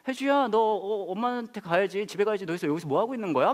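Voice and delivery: mild mock worry, urging a child home; worried. Neighbour woman urges Hyeju home to mum, mildly worried. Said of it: "굉장히 그 걱정스러운 얼굴을 하시면서".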